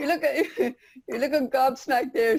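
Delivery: amused, words broken by laughter; laughing. Real, not acted. Teasing a newly arrived friend on the call, laughing. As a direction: talk through a laugh. Laughing while greeting Shelley on screen.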